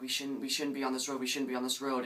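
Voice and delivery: lightly acted panic, urgent repetition; mild mock fretting, a touch of alarm; freaking out. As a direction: play her nervously repeating herself. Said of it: "she's freaking out".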